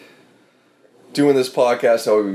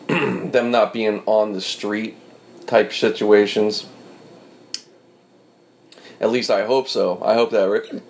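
with hiccups. Real, not acted. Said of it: "It's that drinking hiccup".

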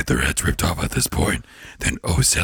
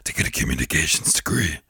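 Satan voice; 5 semitones higher than usual. Retold or imitated. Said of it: "Satan voice".

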